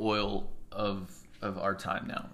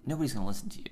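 whisper; much faster than usual. Real, not acted. Whispered aside.

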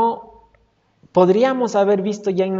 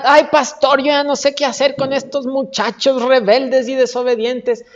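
higher-pitched acted lament; exasperated complaint; 4 semitones higher, 3 dB louder than usual.

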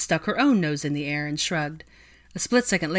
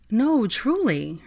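imploring; 7 semitones higher, 3 dB louder, much slower than usual. Acted. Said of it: "gazed at her imploringly".

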